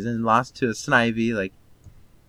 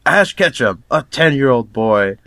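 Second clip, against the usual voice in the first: louder, punched-up announcer voice; show announcer; 5 dB louder than usual. Retold or imitated. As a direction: announce the hero like a cartoon opening. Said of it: "the announcer is like".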